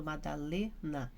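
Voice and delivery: "Madalena" with the LE drawn out; stress on the penultimate. Shown as a demonstration. Teacher showing the class a stressed syllable, "Madalena" leaning on LE. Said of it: "a que nós pronunciamos mais fortemente".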